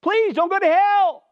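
shouting please, urgent and raw; plain urgent plea. Shown as a demonstration. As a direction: cry it out to a lost soul. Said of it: "It's okay to say".

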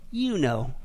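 low, understated parrot; parrot's punchline. Acted. Bird slyly answers the threatened lady, low and understated. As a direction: drop low and let the punchline land simply. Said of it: "the bird simply says".

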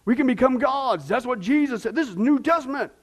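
lightly voiced eager believer, pitch climbing; people arguing. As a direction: imitate someone excitedly making a mistaken case. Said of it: "people say".

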